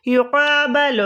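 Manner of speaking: each syllable of یقابل drawn out slowly; slow dictation. Shown as a demonstration. Teacher to students, slowly dictating the word. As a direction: spell یقابل out slowly for the class. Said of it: "وہ کیا بنے گا؟".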